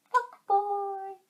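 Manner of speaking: uncensored insult. Shown as a demonstration. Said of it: "Can we say".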